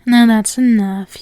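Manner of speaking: commanding domme snap; firm command. Acted. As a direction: stop the pet short. Mistress cuts the pet off.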